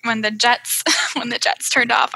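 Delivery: ordinary talk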